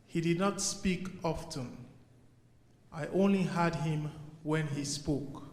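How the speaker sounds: measured poetry reading with long pauses; poem recital. Acted. Poet remembering his father for an audience, measured recital. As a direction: recite line by line, letting each phrase settle.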